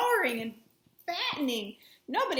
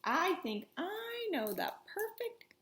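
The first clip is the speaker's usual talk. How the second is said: unvoiced, hushed; whispered secret; 4 semitones higher, 6 dB quieter than usual. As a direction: share it like a secret. Boy shares secret plan.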